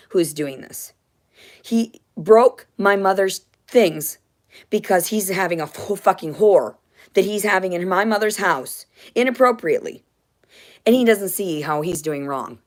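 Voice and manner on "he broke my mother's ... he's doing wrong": louder, slowed, pressed angry complaint; angry rant. Real, not acted. Complaining about the father's girlfriend, angrily louder. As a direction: bear down on each angry word.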